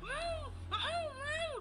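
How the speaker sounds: high wailing cat cry; high yowling kitty imitation. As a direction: mimic the cat's whiny yowl.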